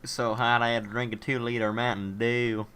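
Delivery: drawn-out mock Southern accent; slow, stereotypical Southern US accent; put-on Southern accent. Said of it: "your accent you just did there".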